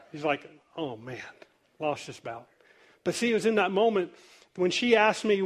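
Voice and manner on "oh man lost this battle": low, soft, deflated mutter; mock dejection. Little Ralphie after Santa's refusal, mildly mock-dejected. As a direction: give up with a mild, acted sigh of defeat.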